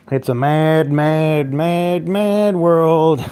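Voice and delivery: loud title shout. Acted. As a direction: belt out the movie title, rising up on each mad.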